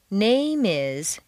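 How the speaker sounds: "name is" flowing together as one word; no break between "name" and "is"; linked words. Shown as a demonstration. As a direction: carry the m of "name" straight into "is". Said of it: "just naturally flows together".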